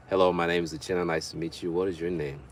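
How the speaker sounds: put-on polite introduction in African accent. Man walking up to a woman to meet her, African accent. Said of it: "say it in, in the African tone".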